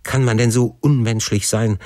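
understated anguished appeal; imploring. Acted. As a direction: beg your father to relent, pitch held high. Son implores father on his knees.

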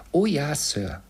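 high, polite maid's voice; housemaid. A narrator's reading. Housemaid answers Scrooge at door. (hohe Dienstmädchenstimme)

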